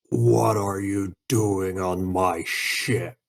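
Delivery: a restrained version of a thunderous shout. Acted. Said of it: "with a thunderous voice is gonna shout".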